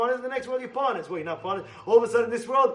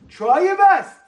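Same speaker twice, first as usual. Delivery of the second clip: high, loud urging; loud exhortation; 7 semitones higher, 12 dB louder, slower than usual. Real, not acted. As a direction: urge them on loudly.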